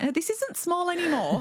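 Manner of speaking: high, startled inner voice; jolted awake by the truth; alarmed realization. Retold or imitated.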